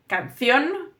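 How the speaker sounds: canción with the stress on the final -ción; Spanish word canción, stress at the end. Shown as a demonstration. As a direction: say canción, leaning on the last syllable. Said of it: "the on is going to be the strong sound".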